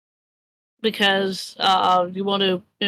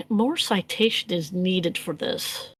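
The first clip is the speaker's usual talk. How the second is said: slightly slow, softer aside; mumbling to herself; 2 semitones lower, 6 dB quieter, slower than usual. Acted. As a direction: mumble it lightly, as if to yourself. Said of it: "she mumbles to herself".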